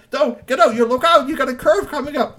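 high, loud, urgent yell of warning; frantic warning shout. Acted. Passenger yelling at driver about the curve, loud and high.

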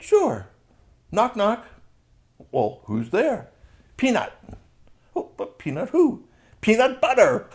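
very high, bouncy voice for the joke; squeaky joker voice. Acted. A high giggly voice as Strongbones tells his knock-knock joke. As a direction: play the giggly jokester high up.

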